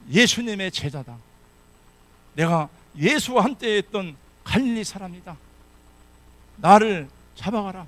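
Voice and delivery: loud, defiant proclamation; bold confession. Pretend. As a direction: declare it proudly and loudly. Peter's imagined bold confession.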